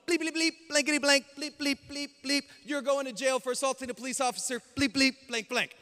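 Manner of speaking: high, loud mock tirade; angry censored ranting. Injured officer swearing and threatening jail.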